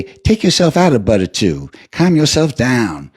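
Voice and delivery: lightly voiced sweet old lady, slowing; kindly old lady driver. Driver calming her rider, lightly voiced sweet old lady. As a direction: soothe him like a church grandma. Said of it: "And she say".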